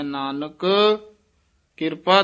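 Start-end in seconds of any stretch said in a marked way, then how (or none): 0.0-0.7 ਨਾਨਕ held with a rise, then a pause; brief halt. Shown as a demonstration. Teacher demonstrating the halt. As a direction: stop on ਨਾਨਕ. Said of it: "ਨਾਨਕ ਪਦ ਤੇ ਯਮਕ ਲਾ ਕੇ ਉਚਾਰਨ ਕਰਨਾ ਹੈ".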